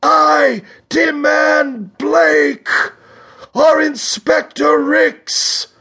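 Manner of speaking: a dead man crying out through the medium; anguished spirit voice, shouting down to a breathless last word; possessed voice. A narrator's reading. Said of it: "her voice was now strangely masculine".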